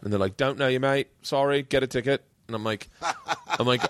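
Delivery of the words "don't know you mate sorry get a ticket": lightly put-on Aussie accent; offhand brush-off in a muddled Australian accent; attempted Australian accent. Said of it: "I don't know what accent I'm doing".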